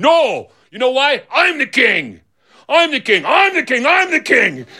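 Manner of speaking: high-pitched, repeated protest; heated insistence. Acted. Argument escalates.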